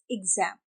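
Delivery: एग्जाम ending in "-zaem"; flat English A. Shown as a demonstration. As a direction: open एग्जाम to an English 'ae'. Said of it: "it's एग्जाम". (एग्जाम में 'ज़ैम')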